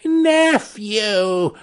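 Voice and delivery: high, drawn-out rebuke; stern. A narrator's reading. Uncle answers his pleading nephew, sternly. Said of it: "returned the uncle sternly".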